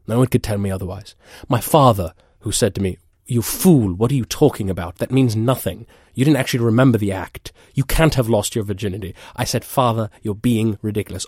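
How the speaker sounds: indignant shout. Acted. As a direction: shout it as if still wronged by them. Outraged retelling of family disbelief.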